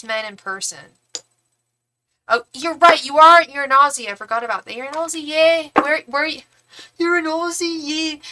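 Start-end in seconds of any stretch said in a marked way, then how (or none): 4.7-8.2 excited cheer. Real, not acted. Excited about viewer in Australia.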